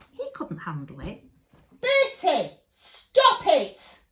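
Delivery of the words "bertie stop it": real high, loud shout; sudden shouted reprimand, pitched way up; sharp shouted command. Real, not acted. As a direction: yell to stop it at once. Breaks off to scold Bertie.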